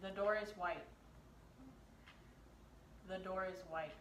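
whisper. Acted. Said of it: "it's the whisper challenge".

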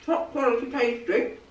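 talking through a mouthful of pie; words round a bite of mince pie; mouth full. Real, not acted. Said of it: "talking with my mouth full".

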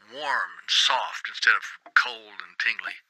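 slow, whispered wonder; awed whisper. Acted. Worker describing the strange feeling on the roof, slow awed whisper. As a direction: breathe the words as if still feeling it.

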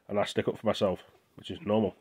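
talking with mouth full; words round a bite of sandwich. Real, not acted. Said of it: "I know, I'm talking with my mouth full".

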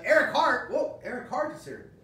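high, loud excited greeting; excited shout. Real, not acted. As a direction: greet him like a surprise guest.

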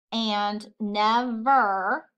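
"never" said slowly, split as ne-ver; syllables split apart. Shown as a demonstration. Teacher counting syllables for students, slow and split. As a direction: stretch "never" into its two beats. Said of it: "that's two syllables".

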